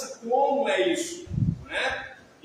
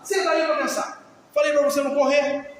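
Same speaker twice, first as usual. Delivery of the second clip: a hint of a stern parent, a bit louder; stern parent order; 3 semitones higher, 4 dB louder than usual. Strict parent sending a child to think, stern and firm. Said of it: "os pais rígidos".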